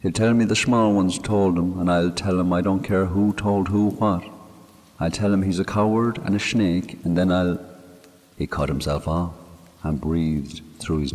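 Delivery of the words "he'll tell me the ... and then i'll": a grieving Irish countryman talking to his dead friend; man murmuring to a grave; Mick's voice. Acted. Mick speaking at the graveside.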